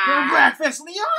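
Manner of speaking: angry shout. Real, not acted. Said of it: "Fuck this".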